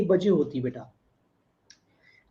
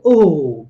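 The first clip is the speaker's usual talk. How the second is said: mock oh; 5 semitones lower, 7 dB louder than usual. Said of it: "प्रशांत कह रहे".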